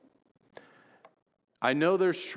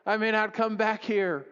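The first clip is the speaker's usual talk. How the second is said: imagined visitor; 4 semitones higher than usual. Retold or imitated. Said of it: "you may be thinking".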